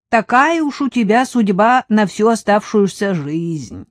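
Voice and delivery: бойкая продавщица, громче и выше; разбитная тётка поучает свысока; поучающая продавщица. Acted. (продавщица наставляет бабу Катю)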